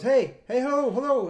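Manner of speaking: imitated friendly shout for attention; calling out. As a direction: call up to someone at a distance. Stranger calling up from dune bottom.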